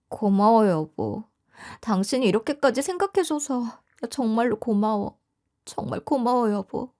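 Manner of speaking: softly spoken, heartfelt thanks; grateful wife. Acted. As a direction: thank your husband tenderly and quietly. 아내가 남편에게 고마움을 전함. (다정하고 나직하게 고마워하는 아내)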